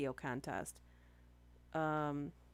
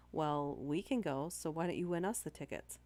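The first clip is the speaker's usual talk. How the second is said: slow and sarcastic. Retold or imitated. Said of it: "slowly and a bit sarcastically says".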